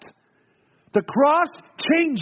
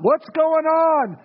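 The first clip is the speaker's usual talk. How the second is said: slow, high, drawn-out puzzled question; bewildered cry; 7 semitones higher, 4 dB louder, much slower than usual. Retold or imitated. Preacher voicing Job's confusion to the church, a slow high bewildered cry. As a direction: let the confusion hang on every word.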